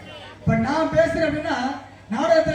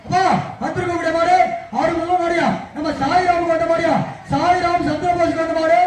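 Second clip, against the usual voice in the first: jallikattu announcer; 3 semitones higher than usual. Retold or imitated. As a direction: hype up the crowd like a bull-taming announcer. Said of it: "எப்படி பேசுவாரு?".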